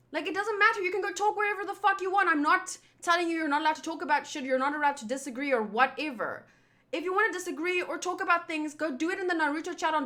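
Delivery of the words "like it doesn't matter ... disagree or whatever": heated rant. Real, not acted. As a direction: spit it out, fed up. Ranting, fast and heated.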